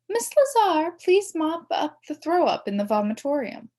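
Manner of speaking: high, loud intercom call to the custodian; loudspeaker announcement. A narrator's reading. Secretary paging the custodian over the loudspeaker, high and loud. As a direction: page the janitor over the PA. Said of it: "makes announcements over the loudspeaker".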